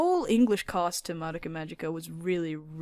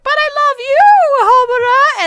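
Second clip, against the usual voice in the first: put-on very high, loud girlish cry; high-pitched Madoka voice; 13 dB louder than usual. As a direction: wail it like an anime heroine. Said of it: "she's like".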